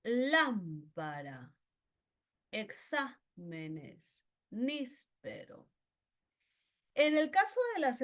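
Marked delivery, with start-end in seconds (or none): 0.0-5.7 lámpara, exámenes, níspero drawn out slowly, leaning on the first stressed syllable; slow stressed examples. Shown as a demonstration. Teacher showing students esdrújula stress, slow and deliberate. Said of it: "esdrújulas".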